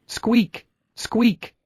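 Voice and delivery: high sharp bunny squeaks; piercing little squeaks; baby rabbit cries. Acted. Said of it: "the cries of the baby rabbits".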